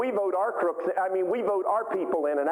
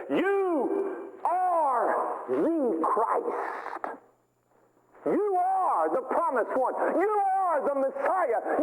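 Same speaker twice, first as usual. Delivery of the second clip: rising proclamation; 10 semitones higher, much slower than usual. Acted. Preacher voicing Peter declaring to Jesus, a building ringing proclamation. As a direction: proclaim it like Peter's great confession, building to a shout.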